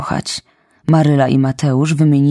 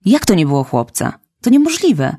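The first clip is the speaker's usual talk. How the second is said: insisting; 4 semitones higher than usual. Acted. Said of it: "upierała się Maryla".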